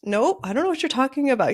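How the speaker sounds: mock dismissive. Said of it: "I'm like".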